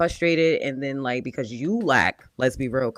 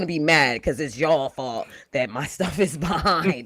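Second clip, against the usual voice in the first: higher, wavering mock complaint with a laugh; mocking imitation; 4 semitones higher than usual. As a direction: mimic her complaining, pitched up and exaggerated. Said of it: "It's how she sounds".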